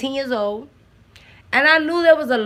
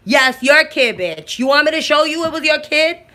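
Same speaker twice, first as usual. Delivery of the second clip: exasperated retort; 5 semitones higher, 5 dB louder than usual. Real, not acted. Answering the denying parent.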